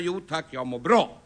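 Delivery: polite demonstration. Shown as a demonstration. Man teaching a child phone manners, politely and slowly. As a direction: model a polite phone answer, unhurried. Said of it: "ska jag vara lika artig tillbaka".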